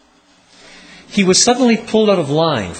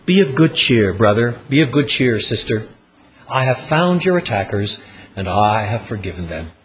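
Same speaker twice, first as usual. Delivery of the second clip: low and gentle, softening to a hush; a lightly voiced pastor, offering peace; pastoral comfort; 5 semitones lower than usual. A hint of a gentle pastor comforting a victim. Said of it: "I go to you and I say".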